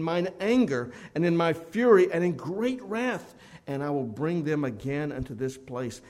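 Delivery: loud, solemn pulpit reading of the verse; preaching the scripture; forceful scripture reading. Acted. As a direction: proclaim the verse with full force, then ease off at the end. Preacher reads scripture aloud.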